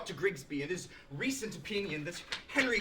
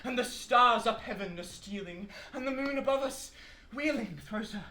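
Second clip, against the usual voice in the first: lilting, raised declamation of verse; poetry recitation; 2 semitones higher than usual. Acted. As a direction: recite grandly, leaning on the rhymes. Lecturer recites Kendall's verse.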